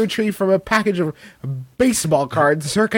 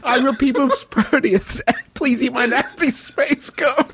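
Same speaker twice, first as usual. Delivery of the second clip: slow, lightly voiced space grandpa; hint of a creepy alien elder; alien grandfather; 3 semitones higher than usual. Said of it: "That sounds like an alien grandfather".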